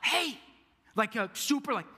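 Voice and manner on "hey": high-pitched imitated protest; playful high 'hey'; mock indignant. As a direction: call it out like an interrupted golfer. Imitating annoyed golfer about to putt.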